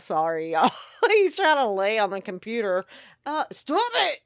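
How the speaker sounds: talking while holding down a cat; strained, busy with a squirming cat; wrestling the cat. Real, not acted. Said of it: "I'm wrestling the cat".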